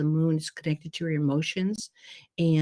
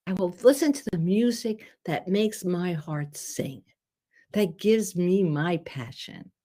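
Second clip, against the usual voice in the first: slow, each phrase drawn out; slow affirmation; 2 semitones higher than usual. Shown as a demonstration. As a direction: savour every promise, slowly. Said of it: "just for today".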